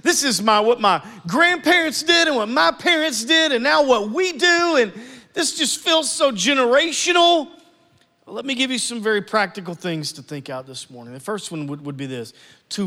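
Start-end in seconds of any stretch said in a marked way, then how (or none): 0.0-7.5 exasperated listener. Retold or imitated. Churchgoer venting that anger runs in the family, rising outburst. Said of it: "and you're like".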